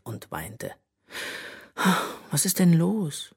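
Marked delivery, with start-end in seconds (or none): 2.3-3.3 gently worried question; concerned. A narrator's reading. Mother asking crying daughter, concerned. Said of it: "fragte ihre Mutter besorgt".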